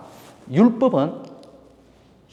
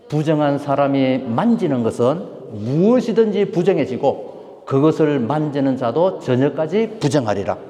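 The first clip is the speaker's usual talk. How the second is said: slow, measured recitation of scripture; slow scripture reading; slower than usual. Acted. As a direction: read it aloud together, slowly. Congregation reads scripture together. (성경을 천천히 함께 낭독)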